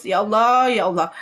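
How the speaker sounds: urgent pleading prayer, pouring out; imploring, words tumbling out; tearful plea. Retold or imitated. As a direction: beg God from the heart, retold. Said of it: "saya menangis".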